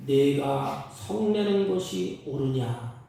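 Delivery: slow, grave voice of God. Acted. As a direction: let God ask it slowly and gravely. God's words quoted slowly. (천천히 엄숙한 하나님의 음성)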